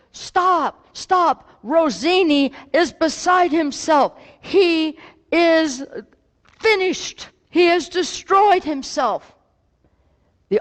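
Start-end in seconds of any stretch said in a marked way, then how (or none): 0.1-9.3 frantic manager, much higher pitch; mock panicked shout to stop the crowd; retold yelling manager. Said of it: "he's yelling".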